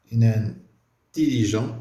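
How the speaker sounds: Inintelligent drawn out slowly, each syllable clear; slow, deliberate teaching repeat; slow model pronunciation. Shown as a demonstration. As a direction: stretch Inintelligent for the class to copy. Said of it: "repeats answer slowly".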